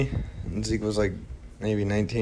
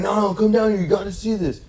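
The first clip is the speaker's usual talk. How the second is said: much higher, eager coaxing voice; creepy stranger beckoning in a high voice; homeless guy; 10 semitones higher than usual. Retold or imitated. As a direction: urge them down the alley, pitched way up. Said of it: "He's like".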